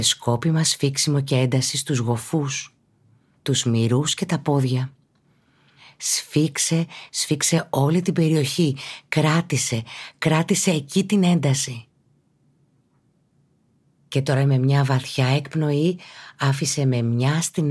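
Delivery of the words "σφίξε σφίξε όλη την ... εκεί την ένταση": higher, controlled push to hold on; raised pitch, calm insistence; gently urging. Real, not acted. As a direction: urge them to keep the tension. Urging listener to hold muscle tension.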